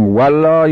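first والله as wallah, second as vallah; Arabic w, then Persian v. Shown as a demonstration. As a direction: contrast a rounded w with a toothed v in والله. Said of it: "امیدواریم این واو قل هو الله". (والله با واو عربی، سپس با واو فارسی)

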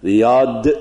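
"ریاد" with a plain d at the end; spelled with d. Shown as a demonstration. Teacher showing the English spelling of Riyadh, deliberate.

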